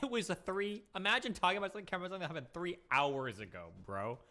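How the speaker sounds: laughing mock of the line; mocking Hassan line. Mocking Hassan's line to chat with a laugh. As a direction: parrot his line, amused. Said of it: "I love that Hassan line".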